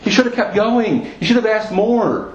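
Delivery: high-pitched, mildly exasperated scolding; upset reproach, acted without shouting; angry rebuke. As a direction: act out a prophet's frustrated reproach. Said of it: "Elisha is angry".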